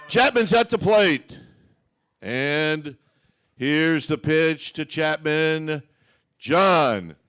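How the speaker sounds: play-by-play. Acted. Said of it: "You're gonna call Matt Chapman's home run".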